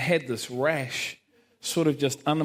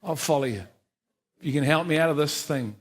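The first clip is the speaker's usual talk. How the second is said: offhand, half-hearted promise to God; grudging bargain. Shown as a demonstration. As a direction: toss off the vow like a deal. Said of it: "And I said it like that".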